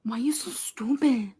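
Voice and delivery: whispered scold at herself; breathy self-reproach. Real, not acted. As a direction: hiss it at yourself under your breath. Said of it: "call herself stupid".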